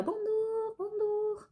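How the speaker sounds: high, mocking caricature of an Asian accent, called out; mocking fake Asian accent. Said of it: "qui me criaient".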